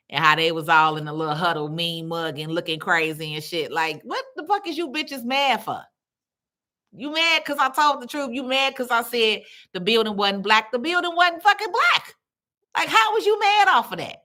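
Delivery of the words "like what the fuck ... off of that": rising, higher and higher exasperated challenge; indignant rant. Retold or imitated. Venting at soccer moms in the park, rising outrage. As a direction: climb up into outraged disbelief.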